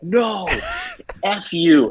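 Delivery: high, wailed mock refusal; mock angry retort. Drunk Tony rejects their answer, high mock anger.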